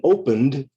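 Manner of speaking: "opened" ending in a d sound; "opened" said like "opend". Shown as a demonstration. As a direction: say "opened" as two syllables, final d. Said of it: "the E D sounds like d".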